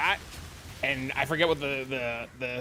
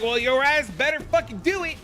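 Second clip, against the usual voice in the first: imitating gym teacher; 8 semitones higher than usual. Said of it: "He's like".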